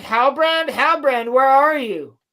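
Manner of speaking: shouting around the forge for a friend; mock calling out. Celebrimbor searching for Halbrand, calling out loudly.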